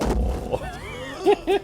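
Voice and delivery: very high wheezy laugh. Real, not acted. Host cracking up at the movie, high laugh.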